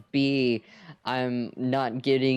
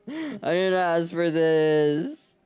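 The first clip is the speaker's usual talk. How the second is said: mock whine; 4 semitones higher than usual. Real, not acted. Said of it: "I'm so mad".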